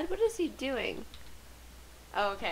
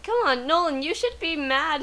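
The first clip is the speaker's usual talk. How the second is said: urging; 5 semitones higher, 3 dB louder than usual. Real, not acted. Urging character on.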